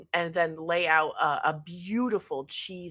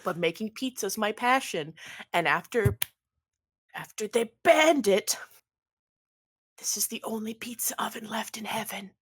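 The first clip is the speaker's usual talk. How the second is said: lightly voiced pleading pizza maker; 2 semitones higher than usual. Pizza maker begs Ernest to call off attacks, pleading. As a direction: beg a favor, stretching out the please.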